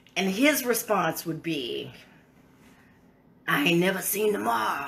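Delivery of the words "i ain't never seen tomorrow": put-on rasping voice. Quoting his grandfather's reply, imitating a raspy voice. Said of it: "he had this kind of raspy voice".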